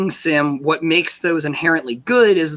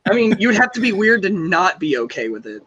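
fake agreement; 3 semitones higher than usual. Sarcastic reassurance.

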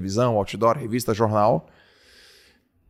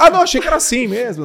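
pitched way up and quick, playful; high mock excuse; 12 semitones higher, 4 dB louder, faster than usual. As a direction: squeak it out fast as a joke.

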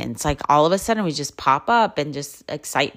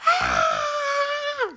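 a sudden high shrieking yell, far above her own voice; imitated scream. Mom imitates the scream heard on the trail, shrill shriek. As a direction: recreate the one scary scream from the woods. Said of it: "it was like".

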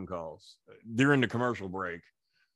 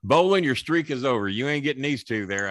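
taunt; 3 semitones higher, 4 dB louder than usual. Retold or imitated. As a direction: crow mockingly over a bet. Jimmy's taunt acted out in retelling.

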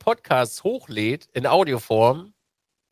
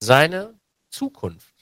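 hammy stage actor; much slower than usual. Pretend. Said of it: "das muss theatralischer klingen".

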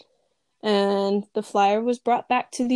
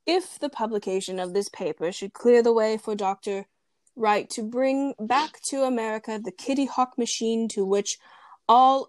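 best man toast voice. Acted. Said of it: "I gotta do my best man voice here".

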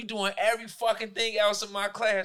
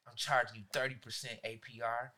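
lower, softer sinister promise; gloating threat; 9 semitones lower, 9 dB quieter than usual. Retold or imitated. Teacher taunting students about future loans, softly sinister. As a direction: savour the revenge quietly. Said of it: "I say".

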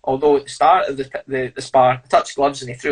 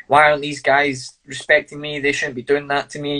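entitled whine. Pretend. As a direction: pretend to be a self-important fighter who feels slighted. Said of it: "if I had a bigger ego and I was more entitled".

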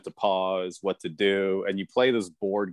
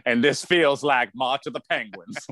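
put-on Southern accent. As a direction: parody a bad impression with a Southern accent. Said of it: "That sounds like a Southern".

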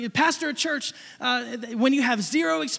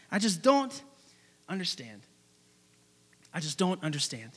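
muttering to himself; 6 semitones lower, 6 dB quieter than usual. Retold or imitated. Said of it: "thinking to himself".

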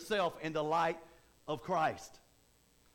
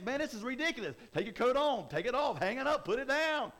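mock whining complaint; 6 semitones higher, 3 dB louder than usual. Karate Kid complaining about chores.

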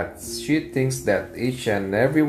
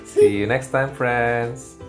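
put-on kids show host. Host signs off vlog.

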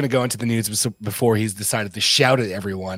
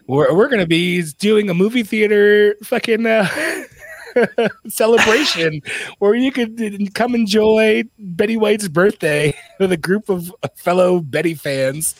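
high, laughing hype announcer voice; mock promo announcer; 9 semitones higher than usual. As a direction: pitch it like a cheesy ad.

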